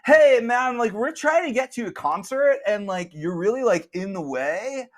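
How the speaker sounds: high, loud, slow laid-back dude. Acted. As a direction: drawl out the concert excuse. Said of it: "spiky hair guys is like".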